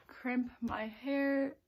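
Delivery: breathy whispered aside. Real, not acted. Vlogger whispering to the camera while waiting. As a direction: drop to a whisper mid-sentence.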